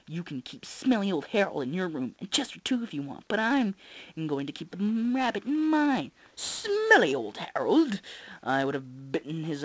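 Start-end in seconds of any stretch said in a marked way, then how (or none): 0.1-6.1 high, mocking big brother; taunting kid. 6.3-8.0 high, slow loud taunt; jeering kid. Acted.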